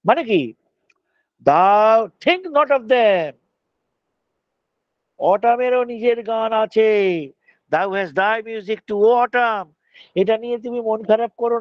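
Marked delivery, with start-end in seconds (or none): 1.5-3.3 lingering, savoring each word; slow poetic recital. Acted. Reciting the poem. 7.7-9.7 lingering, savoring each word; slow poetic recital. Acted. Reciting the poem.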